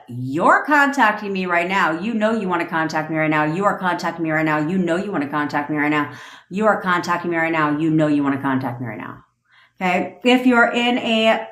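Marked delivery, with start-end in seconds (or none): 0.1-9.2 firm, certain, repeated like an order; commanding affirmation. Shown as a demonstration. Coaching listeners, commanding the ex to call. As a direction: state it as a done deal. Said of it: "So you have to be like".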